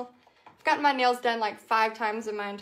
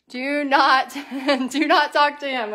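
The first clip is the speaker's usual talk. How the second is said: loud warning; 8 dB louder than usual. Real, not acted. Warning viewers about scammer.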